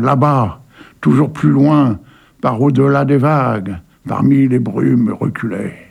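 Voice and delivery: poem reading. Acted. Host reading Verhaeren's poem to listeners, measured. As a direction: read the poem with calm weight.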